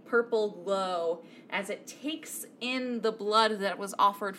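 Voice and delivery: game master narration. A narrator's reading. DM describes door opening.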